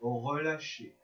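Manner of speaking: measured yoga nidra guidance with long pauses; unhurried, spaced-out relaxation voice; guided relaxation. Real, not acted. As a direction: guide them gently into rest, phrase by phrase.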